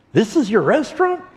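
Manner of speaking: a brash rancher scoffing; a rich Texan sneering at the hotel. Retold or imitated.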